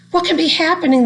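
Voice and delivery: mild startled cry from a little seed; bewildered cry. Acted. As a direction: ask it in sudden wonder. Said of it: "the little seed cried".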